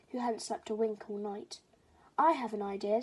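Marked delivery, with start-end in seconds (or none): 2.2-3.0 excited. Acted. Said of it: "said Father Crow excitedly".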